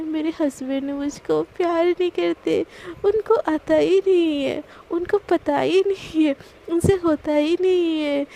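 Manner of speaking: slow, drawn-out mocking taunt; wife slowly taunting her husband. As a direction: rub it in slowly, teasing him. Wife taunting husband, laughs after.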